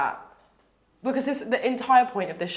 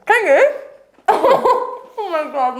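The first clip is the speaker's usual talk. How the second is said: high, loud, laughing squeal; giddy with anticipation; excited; 8 semitones higher, 6 dB louder than usual. Real, not acted. Excited by the voice request.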